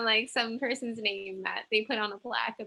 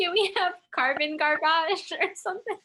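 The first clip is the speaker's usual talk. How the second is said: higher, laughing through the words; 5 semitones higher than usual. Real, not acted. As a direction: giggle out the silly idea.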